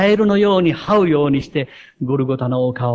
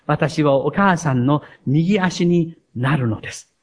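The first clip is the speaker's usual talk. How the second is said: a touching essay read aloud to the congregation; preacher reading a girl's essay about her mother to the church, gently moved. Acted. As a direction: read it like a child's heartfelt letter. Reads a child's essay aloud.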